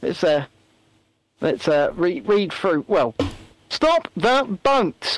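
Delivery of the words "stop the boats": mock Rishi. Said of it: "my best Rishi impression".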